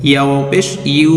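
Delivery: ইউ said like the English word you; ইয়া ওয়াও পেশ ইউ, with ইউ sounding like you. Shown as a demonstration. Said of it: "ইংরেজি ইউ এর মতো উচ্চারণটি হবে".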